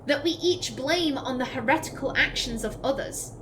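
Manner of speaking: grave, measured recital; dramatic codex reading. Acted. Streamer voices a doubting believer's letter, solemn. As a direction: read it like a troubled believer's letter. Reads codex entry aloud.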